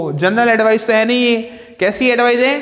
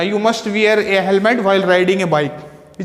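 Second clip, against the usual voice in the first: slow dictation; much slower than usual. Shown as a demonstration. Teacher reads example sentence slowly.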